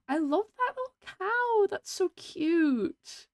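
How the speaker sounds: high, drawn-out squeal of delight; gasp, then coo high and slow; delighted gush. Real, not acted. Streamer gushing over a cute little cow, delighted.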